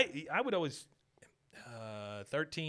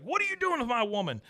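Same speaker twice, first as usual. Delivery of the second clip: higher hammed-up possessive demand; mock jealous boy; 10 semitones higher than usual. Retelling Bobby confronting Joseph over Connie, mock jealous. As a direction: play the jealous kid, pitched up.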